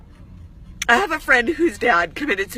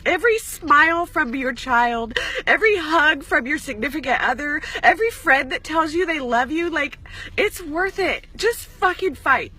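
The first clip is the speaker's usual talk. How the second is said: pleading through tears, pitched up; tearful; 5 semitones higher than usual. Real, not acted. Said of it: "stop being a crybaby mess".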